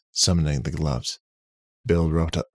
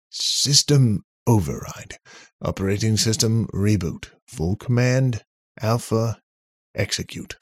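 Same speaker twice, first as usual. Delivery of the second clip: commanding; 5 semitones higher, 3 dB louder than usual. Acted. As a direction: recite the override firmly. Bill command code.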